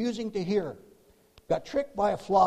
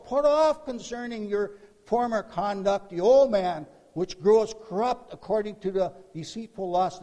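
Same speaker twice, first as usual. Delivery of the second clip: loud, raised proclamation of scripture; urgent preaching; 3 semitones higher, 6 dB louder than usual. Acted. Preacher exhorts believers with Paul's words, urgent preaching. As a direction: drive the verse home forcefully. Same verse again, preached as command.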